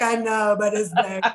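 lightly imitated tearful protest; mock boohoo. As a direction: whine it a little, as if crying. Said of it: "I was just boohoo crying".

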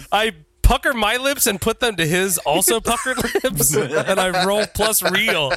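giggling through the words; laughing. Real, not acted. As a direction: laugh while describing it. Mock move description while laughing.

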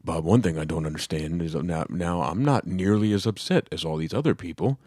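a hint of dad on the phone; dad's phone voice. Dad phoning his son about a TV show, in phone voice. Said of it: "that's his phone voice".

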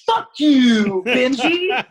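mock yell at Benji. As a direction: bark it at him in fun. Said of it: "He's like".

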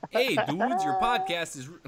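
loud, high hammed-up Canadian accent; exaggerated Canadian greeting voice. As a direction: put on a caricature Canadian accent. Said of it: "can you do it in a Canadian accent".

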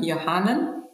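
Yohanan said yo-HA-nan, Hebrew style, each syllable clear; Hebrew pronunciation. Shown as a demonstration. Explaining the Hebrew form of her name, careful Hebrew pronunciation. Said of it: "in the Greek, the, the Hebrew".

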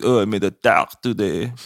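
lightly put-on French accent; a hint of a French-accented dad; mild imitation of dad's French accent; imitating French dad. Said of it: "My dad's always telling me".

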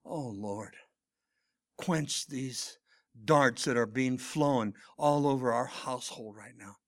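understated retold prayer, a little low; simple prayer. Son praying on the phone for his upset mother, simple prayer. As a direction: plead plainly with the Lord. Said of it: "It was a simple prayer".

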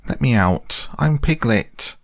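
crying out. A narrator's reading. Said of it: "cried Piglet".

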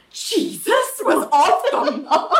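slow, high disbelief; imitating incredulous Ali. Ali disbelieving Mark about Jesus, slow and high. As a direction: drag out the shock.

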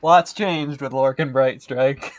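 low, slow in-character voice. Acted. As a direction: drop into Lorcan's voice slowly. Player in character voice.

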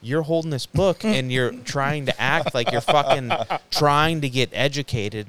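mock an accusing brother, leaning on the words; imitating pissed-off brother. Brother resents him trying to get educated, imitated as pissed off. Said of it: "he got all pissed off".

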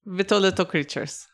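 put-on dwarf repeating in a German accent; German-ish accented correction. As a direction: say it with German-style consonants.

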